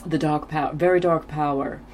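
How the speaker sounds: half-hearted Jamaican accent attempt; bad Jamaican accent. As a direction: try a Jamaican accent and do it badly. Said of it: "I can't even do the bad Jamaican accent".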